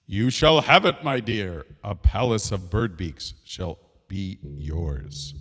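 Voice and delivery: lightly voiced king, slowing down; king granting a wish. King promises his wife a palace, slow and stately. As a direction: grant it with slow, drawn-out final words.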